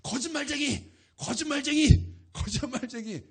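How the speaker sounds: loud, high jeering shout; mocking kids' shout. Boy heckling the evangelist, loud mocking shout. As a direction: jeer like a child following. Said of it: "따라와가지고".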